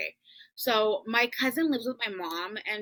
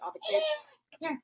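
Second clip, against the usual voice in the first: a real sob cracks the words, pitched up high; choking up as the tears come; voice breaking; faster than usual. Real, not acted. Telling the interviewer about her late uncle, voice breaking into tears.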